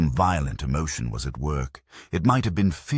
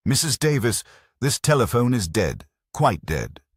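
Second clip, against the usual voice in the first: alarmed; 7 semitones higher, 3 dB louder than usual. A narrator's reading. Phone dead, alarmed.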